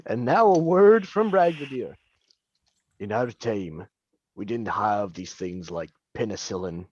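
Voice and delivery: put-on low, old-timey radio ad read; old-time radio voice. Comedian plugging fake ale in a vintage radio ad voice. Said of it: "why are you so good at the radio voice".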